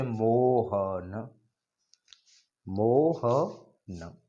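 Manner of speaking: मोहन called out with the final vowel stretched long; पुकार में लंबा खिंचा मोहन; long calling vowel. Shown as a demonstration. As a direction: call मोहन as if across a field, holding the end. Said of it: "उन्हें प्लुप्त स्वर कहते हैं".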